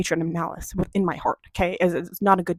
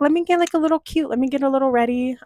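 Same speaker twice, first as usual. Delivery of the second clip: perky inner voice; 5 semitones higher than usual. Retold or imitated. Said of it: "So it's like".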